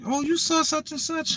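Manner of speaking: high, soft mock prattle; chattering woman. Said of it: "she talking my ear".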